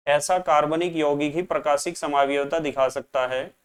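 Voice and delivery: ordinary delivery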